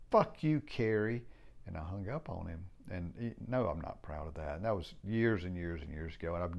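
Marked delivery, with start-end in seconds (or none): 0.1-1.2 retold outburst. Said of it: "I was like, I was so frustrated".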